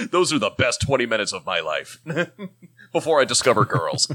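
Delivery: chuckling through the words; laughing. Real, not acted. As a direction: laugh while you talk.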